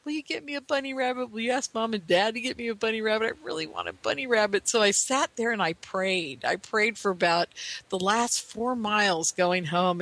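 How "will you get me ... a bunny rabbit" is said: put-on begging child. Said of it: "So I kept saying".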